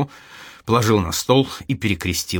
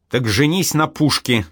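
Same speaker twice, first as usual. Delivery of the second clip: cutting retort; 5 semitones higher than usual. Acted. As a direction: snap it back to cut him off. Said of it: "отсекла Маша". (резко, отрезая)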